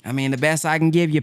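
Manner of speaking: fast, full-voiced pawnbroker patter; quick salesman imitation; brisk mock pawnbroker. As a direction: rattle it off like a dealer closing. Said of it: "They say".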